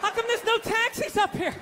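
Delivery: mock panicky white guy. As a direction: play a scared tourist lost uptown.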